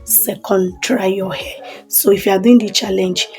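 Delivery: hushed voice during power cut; quiet. Real, not acted. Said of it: "if you hear any noise in background".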